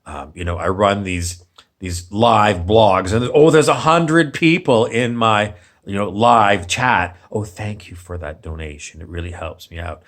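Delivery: a hint of a soothing streamer voice; mock calm streamer. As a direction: parody a laid-back YouTuber thanking donors. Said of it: "very calm and peaceful about it".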